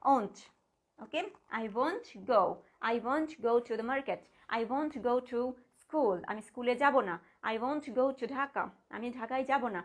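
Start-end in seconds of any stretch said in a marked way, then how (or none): 1.6-6.2 slow, careful example sentence; slow demo. Shown as a demonstration. Teacher slowly reading an example sentence to students. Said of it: "এরকম বোঝানোর ক্ষেত্রে". 7.5-8.6 slow, careful example sentence; slow demo. Shown as a demonstration. Teacher slowly reading an example sentence to students. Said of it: "এরকম বোঝানোর ক্ষেত্রে".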